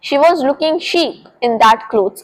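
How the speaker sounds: very slow dictation pace; slow model sentence; example sentence. Shown as a demonstration. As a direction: spell it out slowly for students. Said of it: "teacher example sentence".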